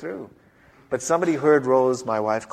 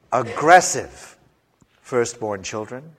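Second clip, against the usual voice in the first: forceful; slower than usual. Shown as a demonstration. Preacher describing aggressive firstborns, forceful. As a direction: sound pushy and strong. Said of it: "They come in two varieties".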